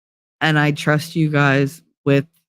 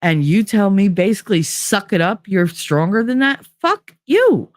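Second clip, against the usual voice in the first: retold indignant outburst; 5 semitones higher than usual. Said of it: "I was like".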